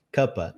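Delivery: "Cuppa" said as one word, kuh-puh; reduced form. Shown as a demonstration. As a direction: clip "Cuppa" into two short syllables. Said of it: "O cup of vira cuppa". ("Cuppa" como uma palavra só)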